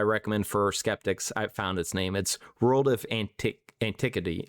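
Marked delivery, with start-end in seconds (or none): 3.8-4.4 halting, unsure attempt at "Antiquity"; tentative go at saying "Antiquity"; struggling pronunciation. Real, not acted. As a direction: stumble over "Antiquity" as a word you can't quite say. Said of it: "never was able to say that word".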